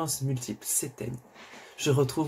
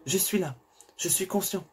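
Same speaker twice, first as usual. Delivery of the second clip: yelling louder; 5 semitones higher than usual. Acted. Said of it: "je hurle de plus belle".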